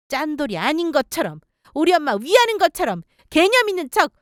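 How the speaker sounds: acted scolding with rising outbursts; mildly shouted, exasperated telling-off; angry tirade. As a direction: tear into the boyfriend, indignant. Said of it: "엄청나게 소리 크게 치며 화냈어요".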